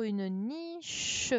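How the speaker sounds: "niche" stretched slowly, with the che sounded out; syllable by syllable. Shown as a demonstration. Teacher sounding out the syllable for pupils, "niche" slowly stretched. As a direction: draw out "niche" so the che stands out. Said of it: "c'était la syllabe che qu'il fallait mettre".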